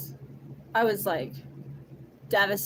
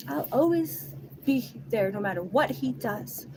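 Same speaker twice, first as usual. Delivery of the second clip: mocking quote; 4 semitones higher than usual. Voicing another woman's texts, mocking. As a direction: parrot the promise mockingly.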